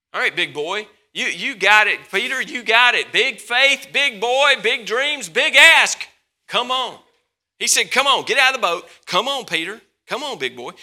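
loud, pumped-up coach voice; Jesus urging Peter out of the boat, loud and eager; hyped encouragement. Acted. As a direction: fire him up like a coach on the sideline.

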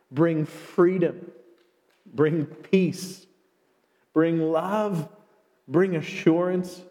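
earnest pastoral prayer to the congregation; closing prayer. Acted. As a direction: pray aloud over the church, steady and sincere.

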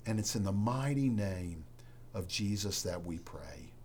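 earnest, subdued pastoral prayer with reverent pauses; spoken prayer. Real, not acted. Pastor praying to Heavenly Father for congregation, subdued earnest prayer.

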